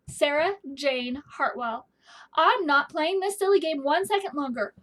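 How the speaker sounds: firm father voice calling upstairs; a dad losing patience with a game; fed-up father summons his daughter; stern father calling. Acted.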